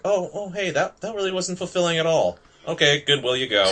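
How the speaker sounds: high, sarcastic little voice; hammed-up letdown; mock disappointed voice. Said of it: "it's like".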